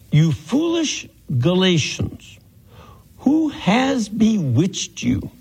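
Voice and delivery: measured scripture reading, pitch lifting on the challenges. Acted. Teacher reads Paul's rebuke to the Galatians, expressive scripture reading. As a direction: read the epistle aloud with rising, questioning emphasis.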